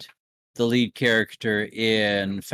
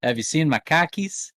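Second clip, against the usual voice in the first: mock Yankee accent; 4 semitones higher than usual. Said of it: "you sound like a Yank".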